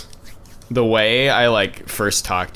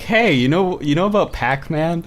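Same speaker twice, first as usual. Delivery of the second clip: lightly voiced awkward guy, higher; awkward Scott Pilgrim; 5 semitones higher than usual. Friend retells Scott's clumsy opener to Ramona, higher and awkward. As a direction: pitch it up like a nervous crush opener. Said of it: "and then he's like".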